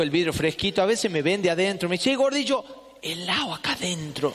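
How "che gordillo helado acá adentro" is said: mocking taunt. Bank clerk teasing the fat guy outside. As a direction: taunt him through the glass.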